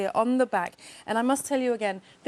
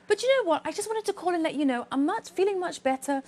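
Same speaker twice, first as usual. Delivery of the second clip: higher-pitched opening, easing as it goes; bubbly caller; 3 semitones higher than usual. Retold or imitated. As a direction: imitate a cheerful caller eager to share news. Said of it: "and she was bubbly".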